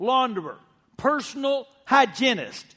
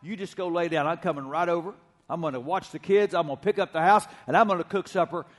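put-on sweet older lady; 3 semitones lower, 4 dB quieter, faster than usual. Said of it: "the older sweet lady said".

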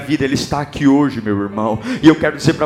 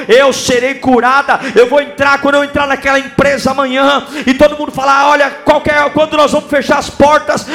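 building from strong to a shouted, much higher cry; preaching at full force; 11 semitones higher, 6 dB louder than usual. Acted. Preacher rallies the congregation to shout to Jesus, building to full shouts. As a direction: preach it up until you are shouting.

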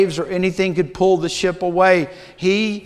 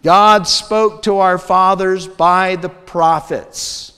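scripture reading. Acted. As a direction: read the passage with solemn weight, unhurried.

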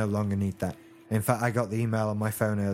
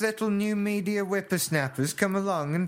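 put-on cranky old-timer grumbling, higher; old prospector; 5 semitones higher than usual. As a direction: grumble like a pompous old codger. Pompous old-timer rant.

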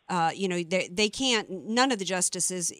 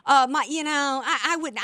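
a mild mock of a nasal, whiny old judge; lightly sends up her whiny delivery, a bit higher; hint of a whiny nasal judge voice; mocking Ruth Bader Ginsburg; 6 semitones higher than usual. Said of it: "in that nasally, whiny, uh, voice of hers".

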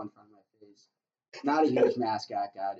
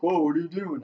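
mascot's startled reply; 6 semitones higher, 7 dB louder than usual. Retold or imitated. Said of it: "he's like".

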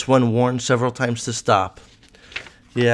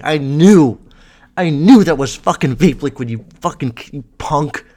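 louder mock teacher, sure and scornful; imagined teacher's thoughts; 2 semitones higher, 5 dB louder than usual. A teacher scornfully calling out a student caught with vape liquid. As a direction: play the teacher who caught him. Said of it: "That's what he was thinking".

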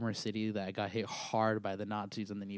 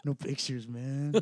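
higher-pitched friend impression; Silvio; 4 semitones higher, slower than usual. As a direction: put on the buddy's accented voice, pitched up. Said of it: "let's pretend Silvio confronted you".

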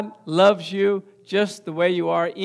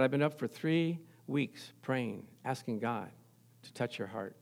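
pleading sister; 7 semitones lower, 12 dB quieter than usual. Retold or imitated. Sister voiced in story.

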